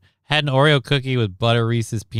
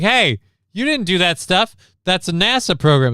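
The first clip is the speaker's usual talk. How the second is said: mildly raised, higher indignant protest; mock indignant official; 7 semitones higher, 3 dB louder than usual. Americans scolding Australians, a touch higher and louder. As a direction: act out a huffy claim of credit. Acting out a space agency squabble.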